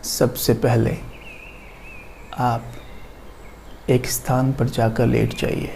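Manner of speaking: soft yoga nidra voice with long pauses; guided meditation. Acted. Teacher guides listeners lying down into yoga nidra, soft guided meditation. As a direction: lull them into rest, softly and unhurriedly.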